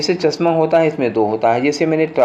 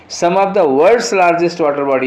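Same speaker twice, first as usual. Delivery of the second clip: reading the sentence very slowly, word by word; slow dictation read; 2 semitones higher, much slower than usual. Shown as a demonstration. Teacher reading the question sentence to students, very slow and deliberate. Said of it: "reads the corrected sentence".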